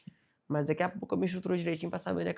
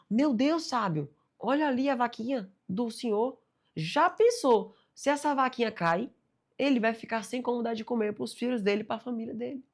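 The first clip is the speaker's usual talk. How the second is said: higher, louder panicked plea; desperate apprentice; 6 semitones higher, 3 dB louder than usual. Retold or imitated. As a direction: beg in alarm over the cow. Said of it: "o aprendiz desesperado". (aprendiz desesperado, voz aguda)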